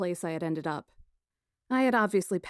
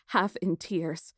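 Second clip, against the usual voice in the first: usual speaking voice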